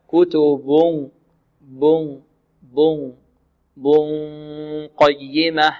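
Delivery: slow "كتب بن قيمة" with a long nasal hum moving from ب toward ق; hidden noon before ق. Shown as a demonstration. Teacher shows the move between articulation points, hidden noon in "بن قيمة". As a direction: glide from the lips back to ق in "بن قيمة", humming. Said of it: "مخرج الباء إلى مخرج القاف".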